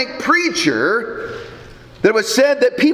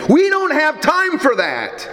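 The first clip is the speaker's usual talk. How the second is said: higher-pitched, mildly exasperated retold scolding; mock snapping; 3 semitones higher than usual. Preacher voicing a frantic mother to her little son, mildly snappish. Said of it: "and snapped at him".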